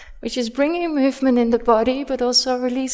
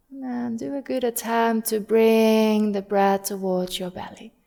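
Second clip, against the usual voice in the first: guided body scan. Real, not acted. Yoga teacher guiding students to soften and breathe, calm and measured. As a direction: ease them gently into breathing, unhurried.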